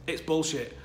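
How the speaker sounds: bullshit with a falling, final tone; flat firm bullshit. Real, not acted. Insisting to viewers the rumour is false, firmly. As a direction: land the word bullshit hard. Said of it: "It's not, in my opinion".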